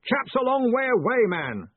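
hearty, dismissive bark. A narrator's reading. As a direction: insist noisily to a fussy assistant. Ridcully still calling loudly.

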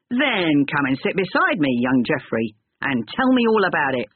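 gruff older man, lightly voiced; a hint of gruffness, friendly. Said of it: "in a gruff voice".

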